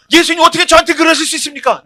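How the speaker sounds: 높고 큰 목소리로 따지는 베드로 흉내; 억울하다는 듯 과장되게 따지기; 연기하는 항변. Acted. 베드로가 예수님께 항변하는 상황극. (과장된 항변조)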